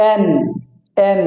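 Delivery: "এন" with a stressed, held final n; correct letter N. Shown as a demonstration. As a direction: press on the n that ends "এন". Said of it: "এটা উচ্চারণ হবে এন".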